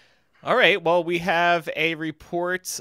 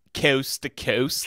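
news anchor voice; 4 semitones lower, slower than usual. Retold or imitated. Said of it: "news reporter anchor voice".

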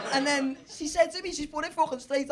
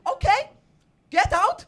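put-on high, loud Norwegian-accented dismissal; comic high Norwegian woman; mock Norwegian accent; 8 semitones higher, 9 dB louder than usual. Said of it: "I'm gonna try and do the accent".

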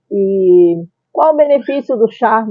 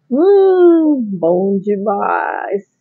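savoring; much slower than usual. Real, not acted. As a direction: relish the taste. Tasting the tea, relishing.

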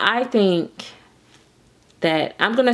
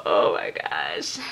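slow, whispered disbelief; hushed, drawn-out whisper; overwhelmed whisper; 3 dB quieter, slower than usual. Real, not acted. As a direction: whisper it slowly to yourself.

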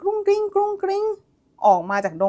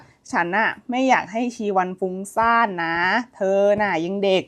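lower, softer, gentle man's voice; tender hero voice; 4 semitones lower, 5 dB quieter than usual. Retold or imitated. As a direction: speak low and softly to her. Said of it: "บอกชีวันว่า". (เสียงพระเอกทุ้มนุ่มเบาลง)

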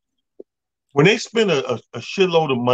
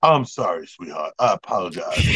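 mock apology; 10 semitones lower, 4 dB quieter than usual. Tracy voiced apologizing, laughing.

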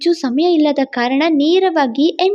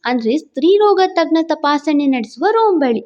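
ordinary delivery

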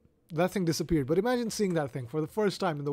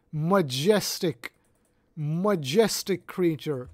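mock majestic awe; slower than usual. Mock nature documentary awe.

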